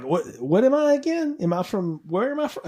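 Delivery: mock confusion, pitch jumping up; confused actor. Actor lost among different scripts, mock confused. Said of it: "he was like".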